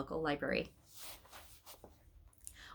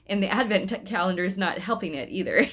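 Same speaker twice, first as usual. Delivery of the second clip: laughing; 4 dB louder than usual. Real, not acted. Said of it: "laughs at the story".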